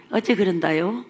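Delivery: Jeolla 어째 그런다요, lightly voiced; a playful Jeolla phrasing; Jeolla dialect. Shown as a demonstration. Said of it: "제가 어째 소리를 잘하거든요". (전라도 사투리 시범)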